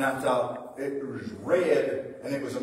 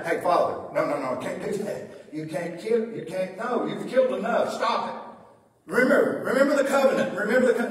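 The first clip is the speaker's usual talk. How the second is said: Jesus pleading; 3 semitones higher than usual. Retold or imitated. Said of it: "Jesus doesn't say".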